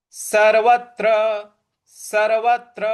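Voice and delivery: सर्वत्र with a firm stop before त्र; stress on त्र. Shown as a demonstration. Teacher modelling सर्वत्र, stressed त्र. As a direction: strike the त्र in सर्वत्र, intoned. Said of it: "उस पर हमें आघात देना है".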